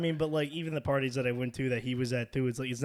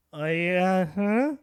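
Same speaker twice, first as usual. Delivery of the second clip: badly faked casual; 2 semitones higher, much slower than usual. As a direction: imitate failing to act normal, giggle into it. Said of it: "they just start talking to me, and I just go".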